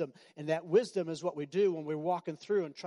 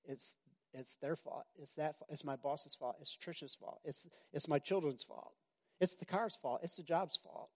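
mock blaming; 7 dB quieter than usual. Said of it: "start projecting".

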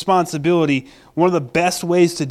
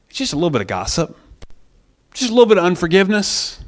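quick, throwaway downplaying; mock-casual tempter; minimizing; faster than usual. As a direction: toss it off as nothing. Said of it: "He likes to minimize your sin".

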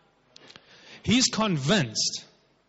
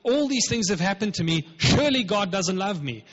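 mock complaint; 4 semitones higher, 3 dB louder than usual. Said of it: "He didn't say".

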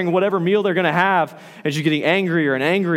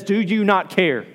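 higher, mildly indignant question; acted indignant challenge; 5 semitones higher than usual. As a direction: challenge him as an exasperated sister. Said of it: "And she says".

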